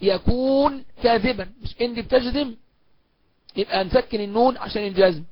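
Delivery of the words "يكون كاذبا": يكون said with long oo and final n; full original form. Shown as a demonstration. Teacher shows the unshortened verb, said in full. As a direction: draw out يكون fully before كاذبا. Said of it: "المفروض أقول".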